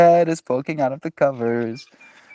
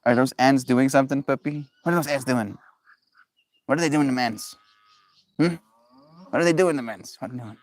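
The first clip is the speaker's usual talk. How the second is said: higher, sing-song voice asking the puppy; 4 semitones higher, faster than usual. Real, not acted. Cooing at the puppy, asking about the ants. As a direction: coo a question at the dog. Talking to the dog.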